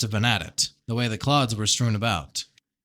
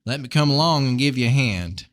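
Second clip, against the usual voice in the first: lightly voiced Southern farmer; a touch of amateur Southern; Southern accent; 3 dB louder than usual. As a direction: offer help with a slight Southern twang. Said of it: "really bad Southern accent".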